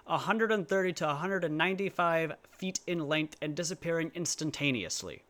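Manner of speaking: flat, dry official read; reading a quote. Shown as a demonstration. A vlogger reading the FBI caption in a dry, deadpan official voice. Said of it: "and I quote".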